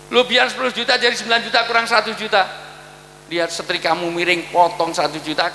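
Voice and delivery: nagging husband. Acted. Husband docking wife's allowance.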